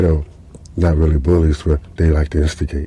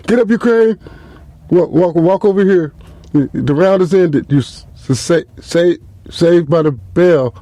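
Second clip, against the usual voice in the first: frantic cornerman; 10 semitones higher than usual. Retold or imitated. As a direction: yell the fighter back to the corner. Cornerman calling fighter over.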